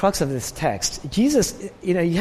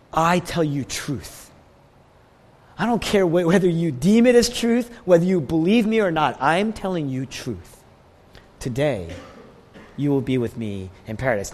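firm, measured authority. Retold or imitated. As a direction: speak with calm authority, no asking. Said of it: "So what he's saying is".

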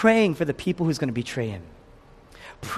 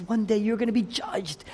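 mild weeping lament; 6 semitones higher, 4 dB quieter than usual. Acted. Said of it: "And he's weeping".

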